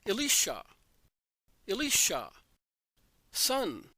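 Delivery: calling a name out loud and high, the last word highest; a father calling his son at full voice; loud shout. A narrator's reading. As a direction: shout the name into the dark cave. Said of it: "Abraham shouts in a loud voice".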